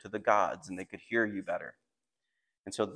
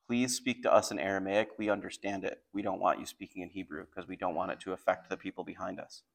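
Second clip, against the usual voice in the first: lowered voice, much softer; hushed request; 7 dB quieter than usual. Retold or imitated. Soldiers on the walls asking the envoy not to be overheard, hushed. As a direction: plead discreetly so others won't overhear.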